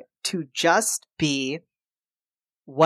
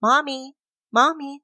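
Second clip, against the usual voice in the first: put-on higher child voice calling Mommy; lightly voiced kids calling out; children calling; 11 semitones higher than usual. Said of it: "They're like".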